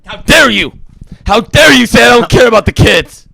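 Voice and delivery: indignant, rising outrage; how dare you, offended; shaking with anger. Acted. Argument over the kids.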